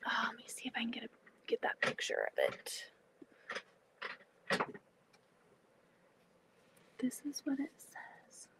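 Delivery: whispering to herself while scrolling; hushed murmur, half to herself. Real, not acted. Whispering while searching her phone for the photo.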